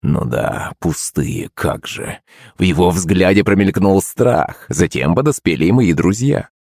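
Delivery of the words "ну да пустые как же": whispered, softer "пустые", mocking under the breath; sarcastic whisper. A narrator's reading. Narrator mocking Shepelev's words in a whisper. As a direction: whisper it to yourself with a smirk.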